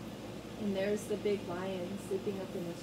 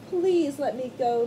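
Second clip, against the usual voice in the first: begging; 6 dB louder than usual. Acted. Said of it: "Mouse begged".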